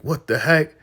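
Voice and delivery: very high, loud disbelief; shocked outburst. Retold or imitated. Brian stunned after Andrew knocks Lynn out, shocked shriek. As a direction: cry out in shock.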